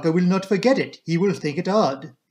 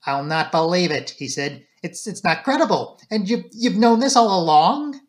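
rising to a louder, higher pitch of disbelief; indignant, pushing louder by the end; disbelieving outburst; 3 semitones higher, 4 dB louder than usual. Acted. Inspector thumps the table at Poirot, indignant, rising louder.

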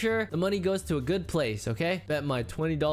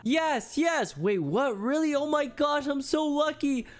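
thrilled squeal; 9 semitones higher than usual. Acted. Girl thrilled to be asked out.

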